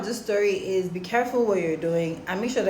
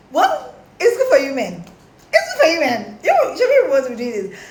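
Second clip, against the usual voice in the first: mocking laugh; 7 semitones higher, 5 dB louder than usual. Real, not acted. Mocking men in story.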